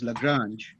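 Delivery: Lagrange with a light "luh" start; typical pronunciation. Shown as a demonstration. Lecturer settling how the name goes, Lagrange said "luh-GRANZH". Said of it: "you typically pronounce it as".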